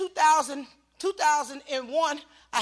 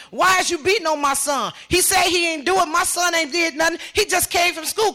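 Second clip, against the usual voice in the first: raised, loud retold argument; indignant protest; 5 semitones higher, 4 dB louder than usual. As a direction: argue hard in your son's defence. Mother protesting to police.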